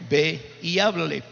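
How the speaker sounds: low, slow inner voice giving an order; measured, spaced-out divine prompting. Retold or imitated. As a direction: say it slowly and low, as a voice within. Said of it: "una voz me decía por dentro".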